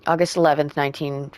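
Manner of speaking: even, flowing love-letter reading; reading a letter aloud. Acted. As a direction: read the letter out clearly, line by line.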